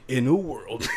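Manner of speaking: first try at the trailer opener; movie trailer voice. Pretend. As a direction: start like a blockbuster trailer. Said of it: "doing them in the movie trailer guy's voice".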